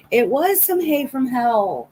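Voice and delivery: laughing. Real, not acted. Joking after laughing.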